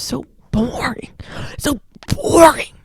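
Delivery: drawn-out, mocking complaint; hammed-up rejection of something dull; exaggerated disgust. Real, not acted. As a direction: drag the word out with theatrical disdain. Mocking dull beige decor.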